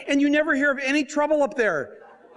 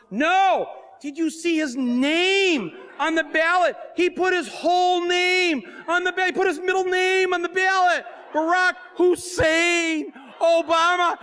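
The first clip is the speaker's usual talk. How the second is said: frantic; 6 semitones higher than usual. Retold or imitated. Frantic retold argument with wife.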